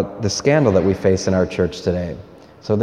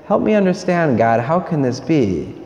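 humble pleading question; 4 semitones higher than usual. Retold or imitated. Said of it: "Mary's saying".

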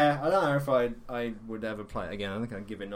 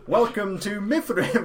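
higher, louder welcome; game NPC retake; 9 semitones higher, 7 dB louder than usual. Acted. Actor redoing a game greeting, high and loud retake. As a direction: relaunch the line brightly as a second take. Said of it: "let me do that again".

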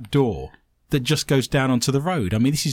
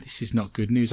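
whisper; 5 semitones lower, 5 dB quieter than usual. Pretend. Whispered aside.

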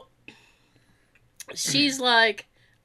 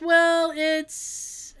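hesitant, higher-pitched trailing off; 5 semitones higher than usual. Retold or imitated. Receptionist trying to explain hot ticket, trailing off. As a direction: start an answer and let it hang. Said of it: "and then she trails off".

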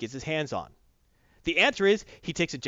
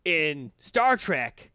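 mild J J impression; 3 dB louder than usual. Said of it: "But J J said".

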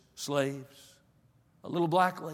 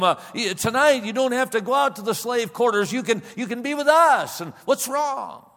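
lightly voiced master, higher and pleading; a touch of a generous host urging his guest; coaxing plantation master; 5 semitones higher, 3 dB louder than usual. Master coaxing Mose at dinner.

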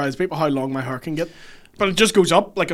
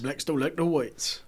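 put-on South African accent; 7 dB quieter than usual. Echoes in slow South African accent.

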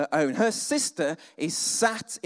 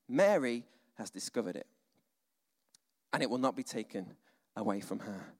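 put-on gently, like a kind old grandfather; grandfatherly Jesus; 4 semitones lower than usual. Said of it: "grandfatherly voice".

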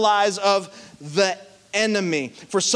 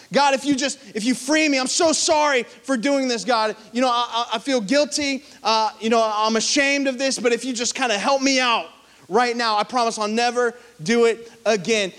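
higher, pleading bargain with God; desperate prayer; 5 semitones higher than usual. Retold or imitated. Preacher voicing a desperate believer, pleading higher. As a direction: beg God to get you out of trouble. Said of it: "You ever prayed that prayer?".

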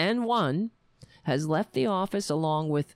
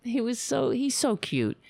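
sing-song high voice fussing over a pet cat; 7 semitones higher than usual. Real, not acted. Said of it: "you have to address it".

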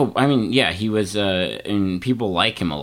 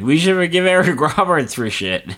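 mock proclamation; 10 semitones higher, 6 dB louder than usual. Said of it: "He's like".

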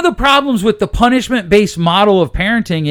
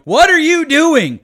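higher, slow, exasperated demand; exasperated yelling parent; 10 semitones higher, 4 dB louder, slower than usual. Retold or imitated. Mimicking a fed-up parent scolding their child, exasperated and higher. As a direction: snap at the kid like a fed-up parent.

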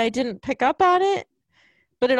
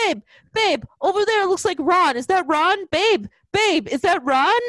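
high-pitched Michael Fassbender-style voice; imitated clueless boyfriend; 8 semitones higher, 3 dB louder than usual. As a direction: mimic the man pestering his babe, higher than usual. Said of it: "That's how he talked".

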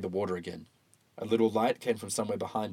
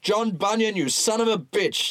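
steady sheriff drawl; 12 semitones higher, 5 dB louder than usual. Acted. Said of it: "said the sheriff".

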